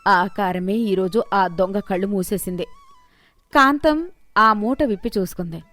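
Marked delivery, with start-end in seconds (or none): 0.1-2.6 lower, calm and reassuring; calm old woman. Acted. Mother-in-law calmly reassuring her daughter-in-law, unhurried. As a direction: settle her fears gently and wisely.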